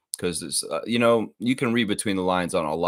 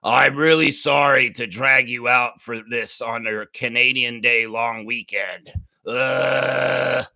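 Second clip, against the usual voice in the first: gleeful mock apology; 3 semitones higher, 4 dB louder, slower than usual. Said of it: "even gleefully saying".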